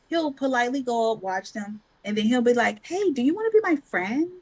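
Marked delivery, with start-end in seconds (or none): 2.9-4.3 put-on child's voice. Mother voicing her child asking.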